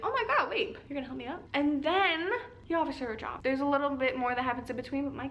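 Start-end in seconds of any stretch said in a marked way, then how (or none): 0.0-1.4 flustered surprise. Retold or imitated. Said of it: "she's like".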